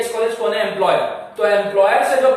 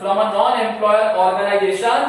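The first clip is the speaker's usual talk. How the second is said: slow dictation; much slower than usual. Shown as a demonstration. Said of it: "उसको बोलेंगे".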